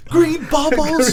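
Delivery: a snobby teen mocks dad's Android phone; spoiled teen. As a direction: sneer it out like a snobby kid.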